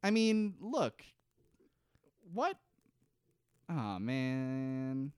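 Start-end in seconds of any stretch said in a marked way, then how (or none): 3.7-5.1 deflated, quiet groan of dismay; disappointed sigh. Real, not acted. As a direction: mutter it like you just lost your work. Dismay after losing questions.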